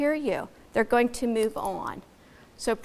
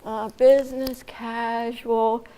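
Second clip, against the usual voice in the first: halting, slow; much slower than usual. Shown as a demonstration. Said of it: "you shouldn't need to say".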